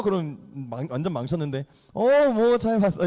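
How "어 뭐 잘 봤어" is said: higher, over-casual bluff; acted nonchalance; feigned cool. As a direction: brush it off as if nothing happened. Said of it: "쿨한 척하죠".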